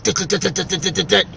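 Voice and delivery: imitated clicking lock; lock clicking noise. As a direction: mimic a lock clicking over and over. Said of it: "magnetic lock on my car was going".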